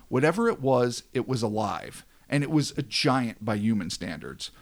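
measured storyteller read, falling at sentence ends; dramatic story narration. A narrator's reading. Host tells of a hulking thing watching them, dramatic narration. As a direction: narrate an eerie tale with weight.

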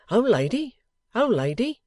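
high, loud swooping call; jovial old husband hailing his wife; Mr Boffin calling his wife. Acted. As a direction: call out to get the old lady's attention.

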